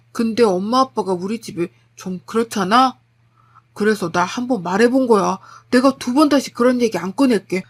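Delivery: lightly voiced husband pleading; begging husband. Husband begging wife not to divorce, pleading. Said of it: "계속 빌더라고요".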